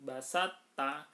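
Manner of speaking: "Basat ta" with a doubled t; merged to into ta. Shown as a demonstration. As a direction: say "Basat ta" with the first t absorbed into the second. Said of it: "taknya ditasdidkan".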